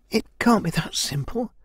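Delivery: high-pitched protest; arguing heroine. A narrator's reading. Kai disputes the elder's verdict on the sister, arguing. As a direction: push back in a lifted young voice. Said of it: "Kai argued".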